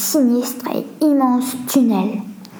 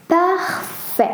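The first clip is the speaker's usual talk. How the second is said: voix de Leslie un peu plus aiguë, satisfaite; 5 semitones higher than usual. A narrator's reading. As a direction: Leslie approuve, contente. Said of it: "dit Leslie". (Leslie à Lenny, voix de personnage plus aiguë)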